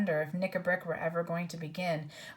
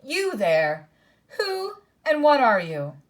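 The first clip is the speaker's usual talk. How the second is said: calling out; 6 semitones higher, 10 dB louder than usual. A narrator's reading. Cornelius challenges strangers.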